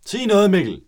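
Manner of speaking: high, loud urging shout; a sudden loud nudge to say something. Real, not acted. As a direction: yell at Mikkel to speak up. Urging friend to talk.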